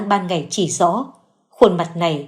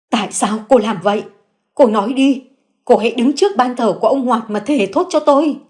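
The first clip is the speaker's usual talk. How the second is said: fierce demand; 4 semitones higher than usual. Acted. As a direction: press her hard, raising the voice. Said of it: "gằn lên từng đợt dữ dội".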